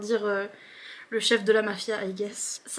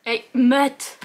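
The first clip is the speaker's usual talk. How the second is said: put-on southern French accent; 6 dB louder than usual. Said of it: "comment il fait avec son accent de chanteur?".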